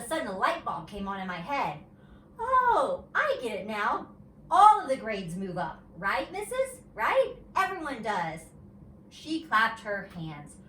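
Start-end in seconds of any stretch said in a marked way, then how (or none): 2.4-8.4 put-on high, loud eureka of a child; excited realization. A narrator's reading. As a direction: burst out as it finally clicks. Junie B. realizes grades move up.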